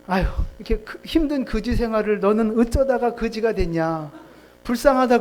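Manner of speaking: sighing, lamenting sympathy; mildly played-up compassion; acted pity. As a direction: commiserate as if feeling sorry for them. Acting out a pitying beggar.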